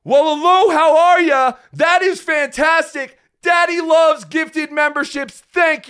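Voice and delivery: light up and cheer the gift; excited greeting. Real, not acted. Host thanking a member for memberships, excited.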